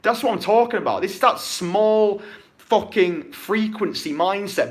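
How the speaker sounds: ranting. Real, not acted. Dating coach ranting at viewers, fired up. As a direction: scold the viewer, worked up. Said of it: "rant over".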